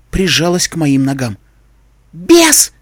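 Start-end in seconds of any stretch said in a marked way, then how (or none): 2.1-2.7 high shrieking wail of terror; terrified wail. A narrator's reading. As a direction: wail it out in panic. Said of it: "завыла она". (испуганный вопль)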